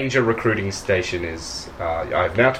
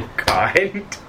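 mildly offended, higher-pitched query; affronted mayor; 7 semitones higher than usual. Acted. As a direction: pick up the slight with raised pitch. Mayor objects to being called kind.

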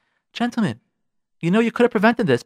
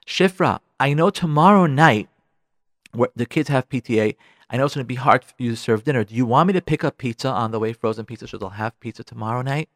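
considerate offer; 5 semitones lower than usual. Acted. Models considerate call to wife.

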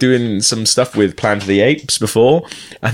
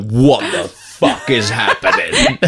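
mock bewildered extra; slower than usual. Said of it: "he's standing there like".

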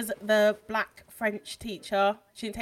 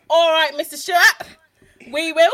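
higher, louder, sing-song class reply; pupils' cheeky chorus; 8 semitones higher, 14 dB louder than usual. Retold or imitated. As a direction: shout it back like a cheeky class. Pupils answering the teacher back.

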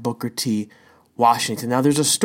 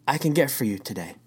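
gentle, humble offer with no trace of sarcasm; completely humble. Retold or imitated. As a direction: serve her kindly, meaning every word. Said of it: "completely humble".

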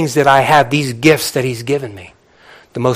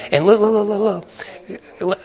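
excited call; 8 semitones higher than usual. Real, not acted. Calling congregation's attention.

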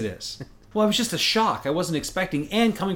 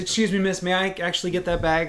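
polite request; 5 semitones higher than usual. Retold or imitated. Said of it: "I said".

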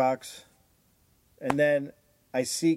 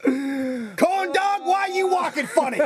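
higher, teasing taunt at the corn dog; mocking movie voice; 11 semitones higher, slower than usual. Teasing the corn-dogged man in their pretend film, high and mocking. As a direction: call out like a cartoon bully, high.

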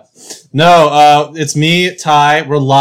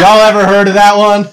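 louder hammed-up catchphrase; 6 semitones higher, 5 dB louder than usual. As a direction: deliver it like a running gag. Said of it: "Greatest hits alert".

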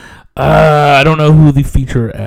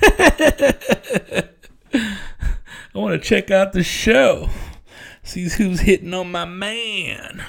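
put-on jealous girlfriend; 7 semitones higher, 4 dB quieter, much slower than usual.

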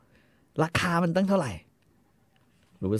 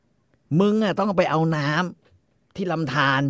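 mock boast; 5 semitones higher, 4 dB louder, much slower than usual. LaBoeuf boasting at Mattie.

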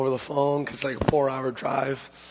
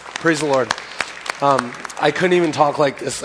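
praise, louder; 5 dB louder than usual. Real, not acted. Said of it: "couldn't talk like this".

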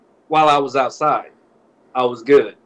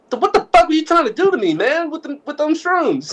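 mock outrage; 9 semitones higher than usual. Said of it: "it's like".

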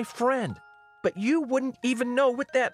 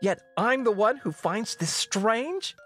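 high, strained, indignant tirade; impassioned outburst; 12 semitones higher than usual. Acted. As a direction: pour out your grievance at your father. Princess berating the king.

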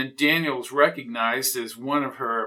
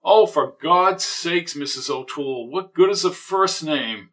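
exasperated; 2 semitones higher than usual. Acted. Exasperated at neighbor.

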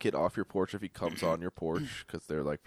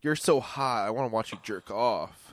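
mock seductive voice; 4 semitones higher, slower than usual. Acted seduction of robber.

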